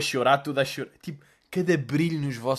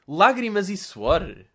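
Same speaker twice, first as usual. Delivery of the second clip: slow mock drama; 4 semitones higher, 5 dB louder, much slower than usual. Repeating the post dramatically.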